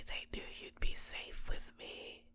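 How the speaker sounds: soft, fully whispered reassurance; intimate whisper. Acted. Captor telling captive they are safe with them, whispering. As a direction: whisper it close, just for one listener.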